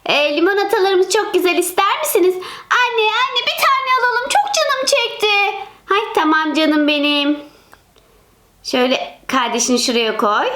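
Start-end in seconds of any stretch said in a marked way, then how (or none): 2.7-5.7 put-on child begging. Çocuk anneden dondurma istiyor.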